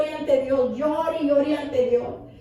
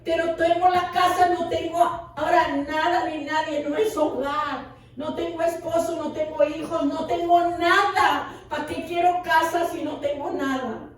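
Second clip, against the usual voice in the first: súplica recordada, algo más aguda; lamento lloroso a Dios; 4 semitones higher than usual. Retold or imitated. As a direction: revive con leve llanto un ruego desconsolado. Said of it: "llorando ante la presencia de Dios". (lamento dolido, con la voz un poco alta)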